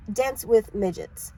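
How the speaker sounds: "Dense with midgets" read slowly and carefully; careful slow reread of "Dense with midgets". Shown as a demonstration. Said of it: "I'm not the best out loud readers".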